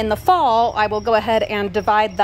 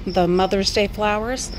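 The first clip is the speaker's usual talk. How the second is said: talking with retainers in; speech muffled by a retainer; wearing a retainer; 3 semitones lower than usual. Real, not acted. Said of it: "Sorry, I sound funny. I've got my retainers in".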